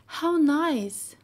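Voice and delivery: high, loud delight. A narrator's reading. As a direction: gush with pleasure at the kiss. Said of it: "cried Peter".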